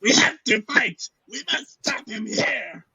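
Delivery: high, loud mock old warrior; anime old man. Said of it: "And an old guy".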